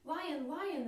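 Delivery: high, loud, delighted call; delighted bird. Acted. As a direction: cry out with joy like a little bird. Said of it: "the bird chirped, delighted".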